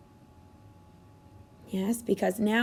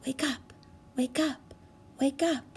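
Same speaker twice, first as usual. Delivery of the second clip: softer hushed wake up; soft call; 5 dB quieter than usual. Shown as a demonstration. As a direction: lead the class softly. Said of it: "Say it with me".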